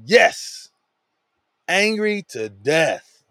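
mock angry defiance; sulky anger. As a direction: huff it out like a stubborn prophet. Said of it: "He says".

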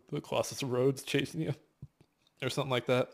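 talking through hiccups; small hiccup breaks in the voice. Real, not acted. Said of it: "I've got the hiccups".

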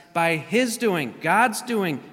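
emphatic reading stressing "his" and "God's". Retold or imitated. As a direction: lean hard on "his", then "God's". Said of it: "here again he reemphasizes".

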